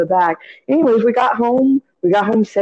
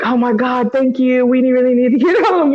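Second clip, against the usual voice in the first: put-on mildly raised, gushing teenage gratitude; retold gushing; 3 semitones higher than usual. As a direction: imitate naive teens gushing their thanks. Retold naive gushing thanks.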